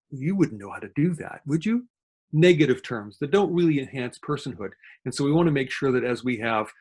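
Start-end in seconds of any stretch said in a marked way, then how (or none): 0.1-1.9 patronizing elder speak. Retold or imitated. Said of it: "elder speak refers to secondary baby talk or patronizing talk".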